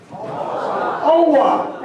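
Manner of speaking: Owa as two syllables, OH-wuh; long O, then "wuh" for Owa; Maine OR sound. Shown as a demonstration. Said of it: "are pronounced".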